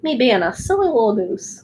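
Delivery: silly little voice. Pretend. Streamer showing her little voices, playfully silly. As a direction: put on a silly little voice for fun. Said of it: "sometimes I do little voices".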